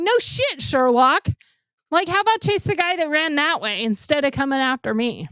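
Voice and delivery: high-pitched, exasperated comeback without shouting; retold pissed-off sarcasm. Assault victim telling off the cop, retold pissed-off sarcasm. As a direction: re-enact being fed up with him. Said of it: "I was pissed".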